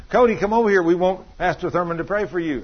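mildly acted parent's summons; imitated parent calling. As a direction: call out as a parent in a retold story. Parent calls the boy over.

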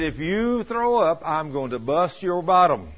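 slow, drawn-out parental threat; mock motherly warning, starting high and slow; imitated scolding mother. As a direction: warn the child slowly, in an acted mother's voice. Exasperated mother threatens the boy.

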